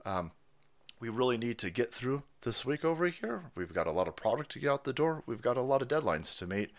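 calmly deflect like a tired manager. Pretend. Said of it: "And the guy's like".

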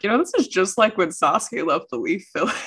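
offhand, breezy aside; casual. Pretend. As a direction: drop it in casually like nothing. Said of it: "casually slip it into conversation".

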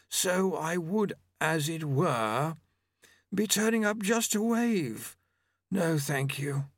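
high, slow, drawn-out character voice; fastidious Famine, objecting. Acted. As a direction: pick at the point in a high, slow voice.

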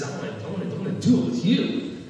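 high breathy voice of God, airy; God whispering a wish to the man. Retold or imitated. Preacher lightly voicing God speaking to Abraham.

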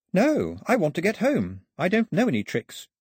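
put-on high-pitched, pleading girl; girl protesting innocence.

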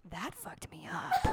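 high, slow, squeaky wail; squealing disbelief. Real, not acted. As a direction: drag it out high and stunned. Reacting to Toad impression.

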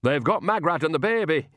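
high, urgent snap; sharp rebuke from an old nanny; snapping. A narrator's reading. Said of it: "snapped Nanny".

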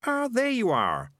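high, drawn-out cheery greeting; cheerful. Acted. Morris greeting the whimpering highwayman, cheerful. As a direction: sing out a pleased welcome, stretched out. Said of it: "said Morris cheerfully".

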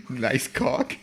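laughing it out as a question; giggling, rising at the end. Real, not acted. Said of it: "Is that what we're calling this one?".

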